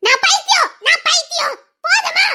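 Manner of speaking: high bitter laugh through the words; mock yourself with a high cracked laugh. Wife mockingly repeats she is mad. (கசப்பான சிரிப்புடன் உயர்ந்த குரல்)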